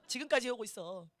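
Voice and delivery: ordinary talk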